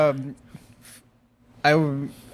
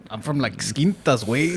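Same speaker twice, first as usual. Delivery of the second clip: Chicano accent; 3 semitones lower than usual. Shown as a demonstration. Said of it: "you wanna talk like this".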